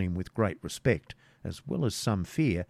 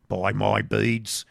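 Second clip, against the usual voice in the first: put-on creaky old hermit; much slower than usual.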